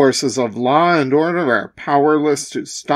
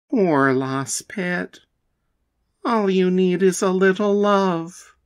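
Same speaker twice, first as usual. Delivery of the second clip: tender cooing; 4 dB quieter than usual. Acted. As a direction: soothe the scared monster. Pink ranger soothes monster.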